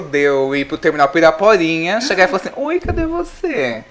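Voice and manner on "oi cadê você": lilting high slow question; high slow call. Retold or imitated. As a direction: call out sweetly, drawn out. (chamado agudo e arrastado)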